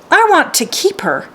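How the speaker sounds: put-on pleading girl. A narrator's reading. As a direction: beg gently to keep the mare. Girl begging to keep horse.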